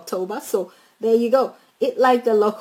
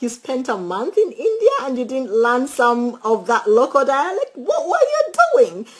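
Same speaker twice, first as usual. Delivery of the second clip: mock disbelief climbing higher at the end; retold incredulous question, last words much higher; 3 semitones higher than usual. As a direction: ask it in retold shock, pitch jumping up. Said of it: "I was like".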